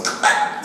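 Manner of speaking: short voiceless splat of a rock hitting; mouth-made thwack; imitated impact noise. Actor telling how the rock hits the throat, imitated impact noise.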